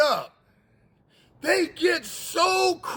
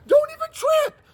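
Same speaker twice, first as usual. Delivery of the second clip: taunting shout; 5 dB louder than usual. Acted. Elijah taunting the prophets.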